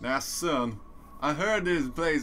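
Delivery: thickest, slow, drawn-out Texas drawl. Teasing the other speaker for talking in a Texas accent, thickest Texas accent imaginable. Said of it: "the thickest Texas accent imaginable".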